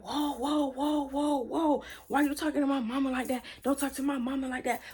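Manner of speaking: indignant protest. Retold or imitated. Cousin objecting to how his mama is addressed, indignant. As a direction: act out a son jumping in to defend his mama.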